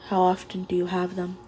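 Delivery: soft, gentle question. Acted. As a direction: ask softly and kindly. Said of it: "Kirishima asked softly".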